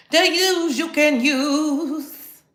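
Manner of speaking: drawn-out, very slow news tagline; grand slow TV-news slogan; slow announcer slogan. Acted. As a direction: stretch every word like a jingle. Announcing segment.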